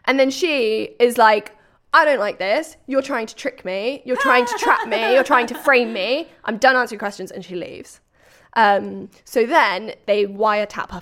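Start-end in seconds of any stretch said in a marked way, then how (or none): 1.9-7.3 lightly acted defensive protest; a touch louder, insistently accusing; mock indignation. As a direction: play a rattled suspect objecting. Acted suspect protesting to police.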